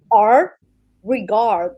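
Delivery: r and regard with a curled English r. Shown as a demonstration. Showing the r they worked long on, English r in "r, regard". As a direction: curl the tongue on the r in "r, regard". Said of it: "you have to roll your tongue".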